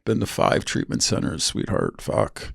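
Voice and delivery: whispered aside. Retold or imitated. Aside about his addiction.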